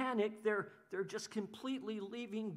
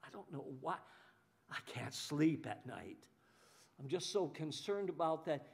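worried whimper; 5 semitones lower, 4 dB quieter than usual. Retold or imitated. Anxious person fretting over their troubles in a soft whisper. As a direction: moan about your stomach under your breath. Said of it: "it affects you physically".

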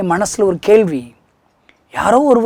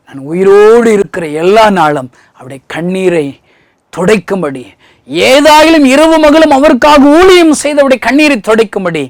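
much higher and louder, crying out the pleas; fiery preaching; 5 semitones higher, 7 dB louder than usual. Acted. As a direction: preach it at the top of your voice. Preaching vow. (உரத்த குரலில் உணர்ச்சிமிக்க பிரசங்கம்)

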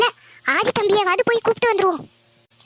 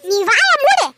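sharp command; 4 semitones higher, 4 dB louder, slower than usual. Acted. Wife silences husband.

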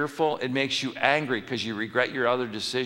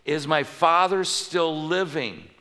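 higher, louder and slow, earnest question; Joseph's eager question; 5 semitones higher, 4 dB louder, slower than usual. Acted. Joseph asking his brothers about his father, slow and higher. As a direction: ask it with aching hope. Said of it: "Verse three".

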